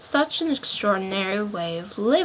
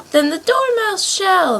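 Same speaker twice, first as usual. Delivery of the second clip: loud, high and slow shared cry; both shout it at the Dormouse together; cried out together; 10 semitones higher, 6 dB louder than usual. A narrator's reading. March Hare and Hatter crying out at the Dormouse, loud and high. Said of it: "they both cried".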